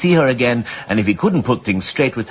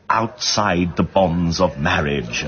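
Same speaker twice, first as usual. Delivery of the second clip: mimicking the judge; 3 semitones lower, much slower than usual. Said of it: "as the judge put it".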